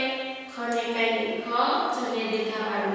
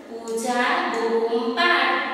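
slow, word by word, ending on પાડ; slow read-aloud; slower than usual. Shown as a demonstration. Teacher reads the whole sentence slowly to the class. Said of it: "હવે આખું વાંચવાનું".

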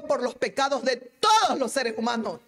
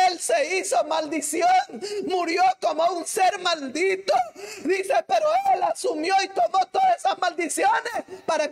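a touch raised, urgent pulpit voice; fervent preaching; 5 semitones higher than usual. Acted. Preacher telling the congregation Christ bore the curse, fervent. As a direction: drive the point home to the pews.

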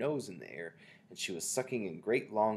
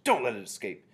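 screeched; 4 semitones higher, 9 dB louder than usual. A narrator's reading. Grand High Witch demanding the spy be exterminated, screeched. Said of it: "screeched the Grand High Witch".

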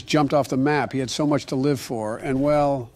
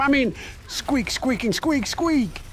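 high slow squeaks; 8 semitones higher, slower than usual. Acted. Joe squeaking as hamster.

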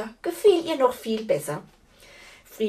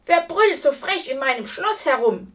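indignant giantess, raised and loud; angry growl; 6 semitones higher, 5 dB louder than usual. A narrator's reading. Woken giantess confronting an intruder, loud indignant growl. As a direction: bellow it in gruff annoyance. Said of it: "knurrte die Riesin".

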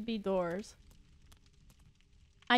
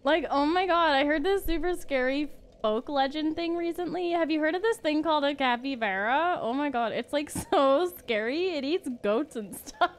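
put-on Valley Girl voice; 2 semitones higher than usual. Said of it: "says in Valley Girl from now on".

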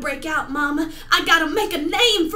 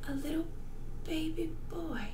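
softer, dreamy repeat; tragic heroine sorrow; 7 dB quieter, faster than usual. Acted. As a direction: hush it tenderly. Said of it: "performing a monologue for you".

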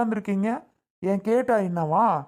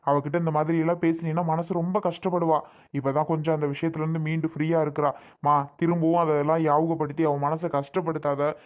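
pleading; 3 semitones lower than usual. Acted. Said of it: "உன் கால்ல விழுந்து கெஞ்சி கேக்குறேன்".

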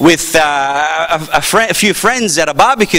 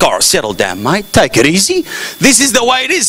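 put-on broad Australian accent. Aussie reining in boastful newcomer, mock Australian accent. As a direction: imitate an Australian cooling someone off. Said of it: "compared to their accent".

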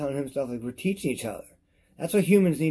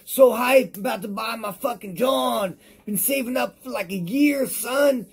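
high, excited voice of an eager buyer; hyped-up buyer; 10 semitones higher, 4 dB louder than usual. Retold or imitated. Mocking hyped buyers, a high, excited voice. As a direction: squeal like someone who saved a year for it. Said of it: "they talk about, man, they're so hype".

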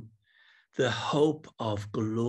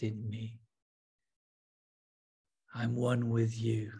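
guided meditation prayer; 2 semitones lower, slower than usual. Acted. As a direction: breathe each line out gently, like a whispered prayer. Guided meditation prayer, slow and soft.

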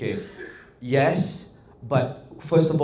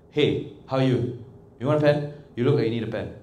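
without stillness. Shown as a demonstration. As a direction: run the phrases together without long pauses. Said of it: "versus my".

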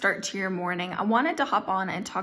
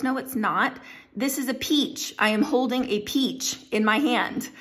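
acted-out exasperated insistence, pitched up a little; insistent correction; 5 semitones higher than usual. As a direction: argue the point firmly, as a mock quarrel. Acted argument over the fruit.

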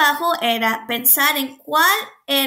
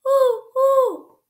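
high, hooting owl call; 11 semitones higher than usual. A narrator's reading. Teacher reading aloud, high owl hoot. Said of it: "ululó la lechuza".

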